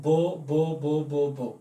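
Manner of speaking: lightly acted stammer on the name; stammering girl. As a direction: stumble on the first syllable, scared. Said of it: "She began to stammer".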